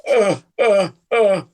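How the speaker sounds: lightly voiced tongue-tied fan; starstruck stammer. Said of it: "I would walk up and go".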